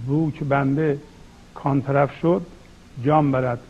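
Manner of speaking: measured verse reading with deliberate pauses; poetry recitation. Acted. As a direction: recite the couplets phrase by phrase. (شعرخوانی شمرده با مکث)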